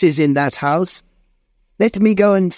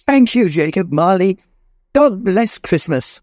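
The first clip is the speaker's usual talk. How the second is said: tearful thanks; 11 semitones higher than usual. Acted. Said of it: "with tears in his eyes".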